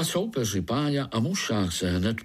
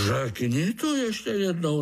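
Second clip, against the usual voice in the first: higher, bristling challenge; huffy challenge; 8 semitones higher than usual. Acted. Spider bristles at the fly, daring him to repeat it. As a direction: puff up and dare him. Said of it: "nasupil se Pája".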